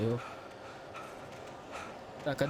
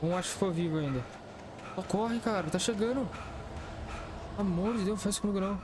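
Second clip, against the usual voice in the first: being chased; 5 semitones higher than usual. Real, not acted. Panicked while enemies chase him.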